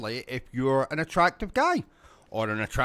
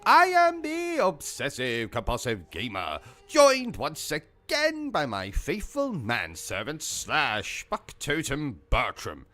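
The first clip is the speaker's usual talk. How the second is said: mock intro; slower than usual. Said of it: "start the video with something like".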